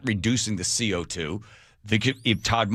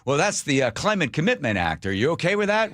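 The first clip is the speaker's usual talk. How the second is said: higher, leading question voice; lightly voiced reporter pushing the driver; mock reporter; 5 semitones higher than usual. Host imitating reporter questioning a driver, somewhat higher. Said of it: "go to a gas station".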